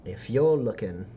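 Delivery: halting sales pitch with long pauses; sly dealer's pitch. Acted. Dealer pricing rare stardust for a customer, lightly voiced sly pitch. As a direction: draw out the pitch before naming the price.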